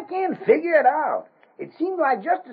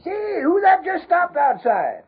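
startled call; 4 dB louder, slower than usual. Acted. Spotting a stranger outside, alarmed.

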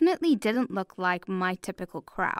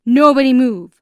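loud, higher-pitched command; shouted order; 4 semitones higher, 14 dB louder than usual. A narrator's reading. Masked gunman to a family at dinner, shouted order. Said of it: "one of them shouted".

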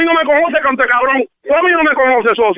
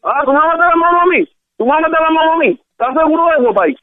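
indignant challenge; 5 semitones higher than usual. Real, not acted. Challenging a threat on the phone.

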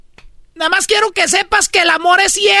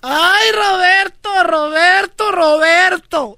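mock angry aunt; slower than usual. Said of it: "repetía el nombre ... bien enojada".

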